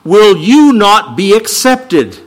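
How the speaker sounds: measured, solemn Bible reading; solemn scripture reading from the pulpit. Acted. Reads Genesis passage aloud.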